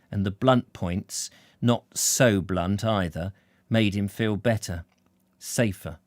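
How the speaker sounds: measured audiobook storytelling, easing down; storyteller setting the scene; story narration. A narrator's reading. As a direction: read the novel aloud with deliberate phrasing. Reads novel narration aloud.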